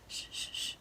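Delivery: unvoiced shushing; hush. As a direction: hush everyone down. Hushing before the shadow.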